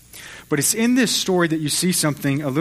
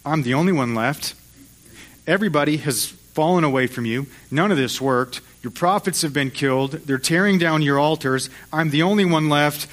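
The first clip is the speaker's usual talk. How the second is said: unloading frustration; 2 semitones higher than usual. Acted. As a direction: pour it all out, building, then sink back. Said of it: "And he unloads".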